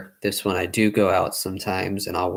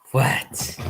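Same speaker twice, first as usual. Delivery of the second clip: whispering to a dog; 3 semitones higher than usual. Real, not acted.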